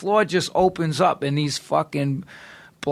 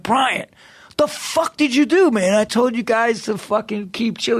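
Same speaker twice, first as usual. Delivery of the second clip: high, raised scolding of a friend; exasperated scolding; 7 semitones higher than usual. Retold or imitated. Calling Brian the next day, high exasperated scolding. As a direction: yell at Brian for starting trouble. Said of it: "and I'm like".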